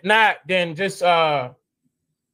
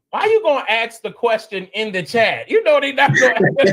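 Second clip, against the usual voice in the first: exasperated shout; 4 semitones higher than usual. Real, not acted. Scolding Adam for asking in chat, raised and fast.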